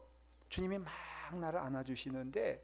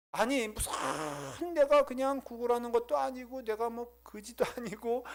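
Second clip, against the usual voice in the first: high, loud, slow cry of disbelief; stunned and indignant, voice pitched up high; shocked outrage; 9 semitones higher, 4 dB louder, slower than usual. Retold or imitated. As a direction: relive the shock of being insulted. Preacher reenacts his shocked outrage.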